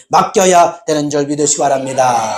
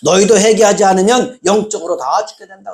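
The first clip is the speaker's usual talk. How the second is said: lightly voiced words of Jesus, pitched higher; 예수님 말씀; 5 semitones higher than usual. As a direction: retell it as a raised-pitch warning. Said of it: "예수님이 그런 거예요". (살짝 높인 목소리로 전하는 예수님의 경고)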